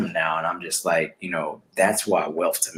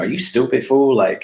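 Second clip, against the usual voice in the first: louder, higher scolding inner voice; reasonable inner voice; 5 semitones higher, 5 dB louder than usual. Retold or imitated. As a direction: play the voice of reason telling off your doubting self. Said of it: "my reasonable voice".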